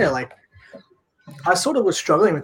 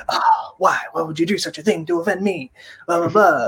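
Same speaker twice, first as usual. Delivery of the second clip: melodramatic Frenchman; 3 semitones higher than usual. Retold or imitated. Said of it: "he just turned into a, like, a French, Italian person".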